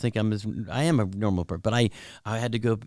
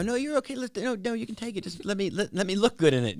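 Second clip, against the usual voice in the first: reassuring; 10 semitones higher, 4 dB quieter than usual. Retold or imitated. Retold reply to caught secret photographer.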